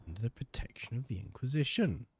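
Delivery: put-on a light, quick Welsh accent; a hint of a Welsh accent. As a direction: toss it off in a Welsh lilt. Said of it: "I said that in a Welsh accent".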